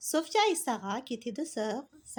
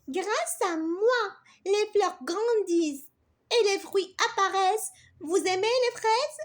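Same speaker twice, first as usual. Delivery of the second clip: higher, louder self-praising bee; proud bee; 6 semitones higher, 5 dB louder than usual. Acted. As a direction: boast about her work, indignant. L'abeille se défend avec fierté. (abeille fière, ton plus aigu et fort)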